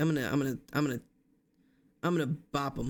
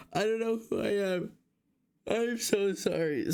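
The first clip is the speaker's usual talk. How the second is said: talking through a yawn; 6 semitones higher than usual. Real, not acted. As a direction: yawn right through the words. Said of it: "I keep yawning".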